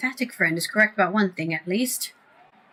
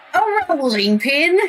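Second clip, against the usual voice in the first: drawn-out, higher British warm-up phrase; British accent; 6 semitones higher, slower than usual. Shown as a demonstration. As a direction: slip into British on a stretched key phrase. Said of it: "I need the British".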